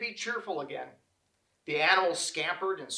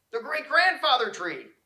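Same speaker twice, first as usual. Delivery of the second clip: high, louder stunned echo; dismayed; 8 semitones higher, 7 dB louder than usual. A narrator's reading. Animals echoing the news of the great-grandfather tree, high and stunned. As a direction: repeat it, stunned.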